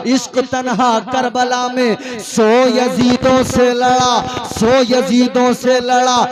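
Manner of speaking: dramatic recitation. Acted. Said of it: "अब जो दो मिसरे सुनोगे".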